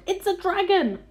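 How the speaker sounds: high, loud cries of alarm; panicked shouting. A narrator's reading. Policemen and firemen naming the monster above, panicked shouts. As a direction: shout each monster's name as if in a frightened crowd. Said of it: "all started shouting at once".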